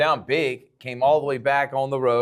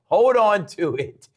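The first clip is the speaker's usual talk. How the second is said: urgent coaching plea; 6 semitones higher, 5 dB louder than usual. Retold or imitated. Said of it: "how do you get these guys that it's like".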